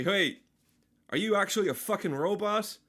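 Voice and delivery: yelling at a chatbot in disbelief. Retold or imitated. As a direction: call him out on it. Accusing chatbot of being robot.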